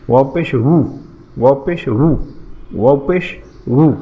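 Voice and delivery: "রু" as a w-sound "wu", lips fully rounded. Shown as a demonstration. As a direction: release the air through rounded lips on "রু". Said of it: "ঠোঁটটা গোল করে, বাতাসটা ছেড়ে দিয়ে". (ঠোঁট গোল করে বাতাস ছেড়ে "রু")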